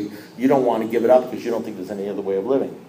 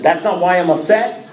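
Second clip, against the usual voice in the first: louder, higher disbelieving question; incredulous; 5 semitones higher, 5 dB louder than usual. Retold or imitated. Upset member questioning his sponsor, incredulous. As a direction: throw it back as an indignant question.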